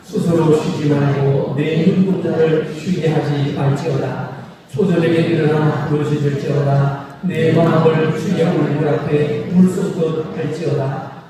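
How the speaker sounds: slow, weighty reading of the prophet's words; solemn scripture reading. Acted. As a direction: read each line slowly like a holy text. Preacher reads scripture aloud. (느리고 장엄한 성경 낭독)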